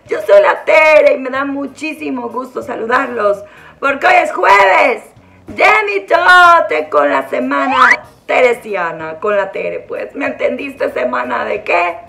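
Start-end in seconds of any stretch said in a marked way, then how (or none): 3.8-9.2 announcer shout. Acted. Announcing show title with music.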